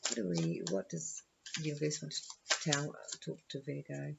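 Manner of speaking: stumbling and restarting the question; hesitant, tongue-tied false starts. Real, not acted. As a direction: trip over your words, feeling for the right one. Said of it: "I'm a bit tongue-tied today".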